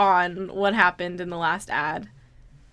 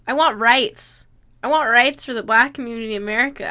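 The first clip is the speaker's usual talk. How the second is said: mock protest; 4 dB louder than usual.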